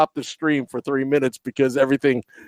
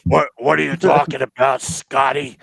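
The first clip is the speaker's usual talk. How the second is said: lightly mimicked sarcastic player; mock-indignant comeback, imitating a teammate; Colin. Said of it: "that's a solid impersonation right there".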